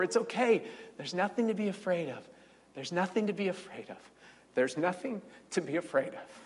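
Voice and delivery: soft, hushed reassurance repeated; calm a scared child softly; soothing mom. Retold or imitated. Mom soothing her frightened child in the night, soft and hushed. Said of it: "saying to me over and over".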